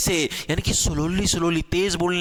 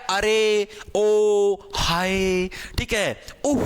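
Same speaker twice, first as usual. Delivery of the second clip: mock exclamations; much slower than usual. Shown as a demonstration.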